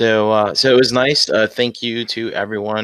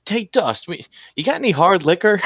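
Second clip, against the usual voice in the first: put-on drunken shout; 7 semitones higher than usual. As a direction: yell for booze at 2 AM. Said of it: "and Chuck's like".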